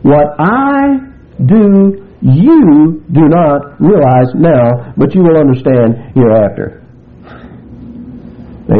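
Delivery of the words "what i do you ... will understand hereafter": slow, weighty and deliberate; Jesus answering Peter firmly; emphatic. A narrator's reading. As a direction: lay each word down slowly.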